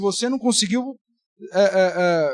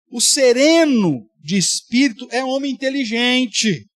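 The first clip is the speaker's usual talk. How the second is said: scripture reading; 4 dB louder than usual. Acted. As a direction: read the verse to the congregation. Reads the Proverbs verse.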